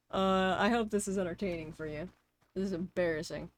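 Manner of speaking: ordinary talk, nothing marked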